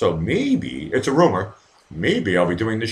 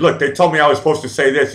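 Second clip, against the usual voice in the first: imitating Trump; 7 semitones higher, 5 dB louder than usual. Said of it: "he said".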